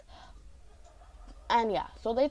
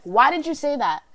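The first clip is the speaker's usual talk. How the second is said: higher, louder imitation of a cross teacher; mock indignant demand; 6 semitones higher, 8 dB louder than usual. Teacher questioning student about the name, mock indignant. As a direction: challenge the student, mildly hammed-up.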